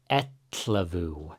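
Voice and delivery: etlevu with teeth together, air out the sides; slow etlevu, tl from the sides of the mouth; teacher modelling etlevu slowly; Icelandic ellefu. Shown as a demonstration. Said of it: "It's kinda like you put your teeth together".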